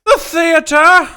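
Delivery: booming, drawn-out cry of The theater!; slow, high, hammy theatrical shout; dramatic theater shout. Acted. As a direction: proclaim it like a grand stage actor. Dramatic exclamation about theater.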